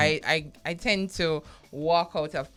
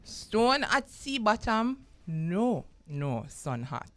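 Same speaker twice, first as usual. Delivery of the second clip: Jamaican accent; 3 semitones higher, slower than usual. Shown as a demonstration. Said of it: "read it in my Jamaican accent".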